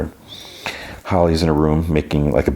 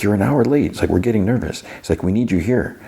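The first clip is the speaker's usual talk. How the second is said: anxious radio call; 5 semitones higher than usual. Retold or imitated. Friend anxiously calls Dustin on radio.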